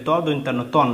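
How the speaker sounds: two bare consonants run into one syllable, তন; two letters read together. Shown as a demonstration. Teacher shows pupils two letters read together as তন. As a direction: spell the letters, then join them as one তন. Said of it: "দুটোকে একসঙ্গে পড়তে হবে".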